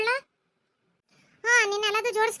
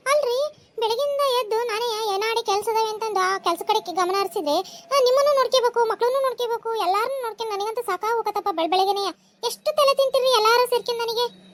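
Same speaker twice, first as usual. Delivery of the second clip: exasperated wife's scolding; worked-up, nagging complaint; irritated; 3 dB louder than usual. Acted. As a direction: snap at your husband, fed up with the morning's chores. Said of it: "ಸಿಟ್ಟ ಬೇಡ".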